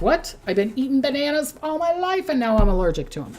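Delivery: mock surprise. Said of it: "and you're like".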